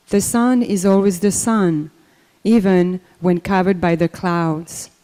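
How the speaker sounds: measured, deliberate poem reading; tender poem read aloud; poem recital. Real, not acted. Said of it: "read a short little poem I wrote".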